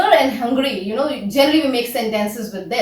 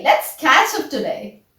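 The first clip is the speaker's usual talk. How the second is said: slow, deliberate model phrase. Shown as a demonstration. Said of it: "I invite my sisters ... in this way".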